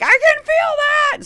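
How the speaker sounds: very high, drawn-out yell; retold pained protest. Patient as scalpel cuts, high protesting wail. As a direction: wail it like a patient feeling the blade. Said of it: "like, I'm like".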